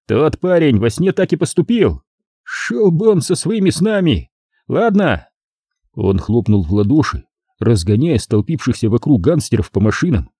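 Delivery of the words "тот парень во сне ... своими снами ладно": higher grumbling voice; dismissive gangster. A narrator's reading. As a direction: brush off the dream talk. (пренебрежительно)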